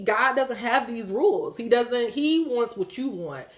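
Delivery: ordinary talk, nothing marked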